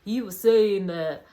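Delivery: light mock Southern American accent; a hint of a Southern American commentator. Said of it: "I don't know why Michael's Southern".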